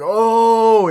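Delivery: very high, loud yelp of shock. Retold or imitated. Audience member reacting as Donnie storms out, high and shocked. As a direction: gasp out in outrage.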